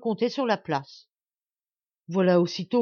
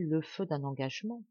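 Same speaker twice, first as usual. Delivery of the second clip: low, hushed murmur to himself; softly murmured worry; 4 semitones lower, 7 dB quieter than usual. Acted. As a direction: mutter it quietly, half to himself. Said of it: "murmurait-il".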